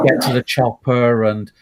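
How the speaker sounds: put-on lightly Cornish-accented action hero; movie catchphrases with a hint of Cornish burr; slight Cornish accent for a film hero; Cornish Schwarzenegger. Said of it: "this kind of Cornish accent".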